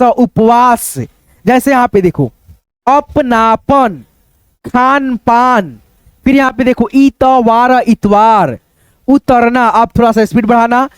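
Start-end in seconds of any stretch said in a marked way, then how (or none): 2.9-5.8 अपनापन and खान पान slow, in halves; slow teacher's reading, अपना-पन, खान-पान; split into parts. Shown as a demonstration. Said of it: "दो भागों में डिवाइड करके". 6.9-7.8 इतवार broken up as इ-त-वार; separated, drawn-out इ, त, वार in इतवार; split into parts. Shown as a demonstration. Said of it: "दो भागों में डिवाइड करके".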